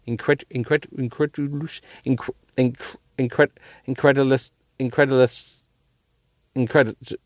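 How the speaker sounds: stumbling over word. Real, not acted. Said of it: "big word coming up".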